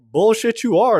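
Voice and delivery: a woman calling their bluff, mock scoffing.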